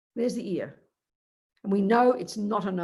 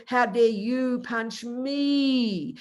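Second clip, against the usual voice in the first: very slow, drawn-out offended line; mock indignation; much slower than usual. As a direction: play it wounded and outraged, slowly. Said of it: "Or I'll say to Kerry".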